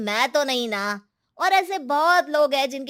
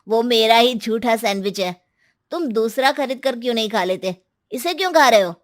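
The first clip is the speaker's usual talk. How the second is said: rising to a louder why; can't believe what he sees; incredulous; 4 dB louder than usual. Acted. Ankur asking the hungry man why he eats his sandwich, incredulous.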